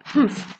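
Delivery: short huffed humph. A narrator's reading. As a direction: let out a brief huff. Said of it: "humphed the voice".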